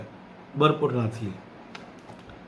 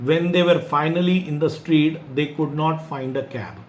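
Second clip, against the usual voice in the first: slow, deliberate read-aloud; measured classroom story reading; story narration; 3 semitones higher, 3 dB louder, much slower than usual. A narrator's reading. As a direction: read it out slowly, word by word.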